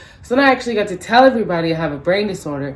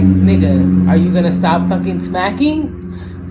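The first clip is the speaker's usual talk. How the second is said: irritated confrontation; 5 dB louder, slower than usual. Retold or imitated. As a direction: drop the pitch and call him out. Turns on loud-chewing stranger.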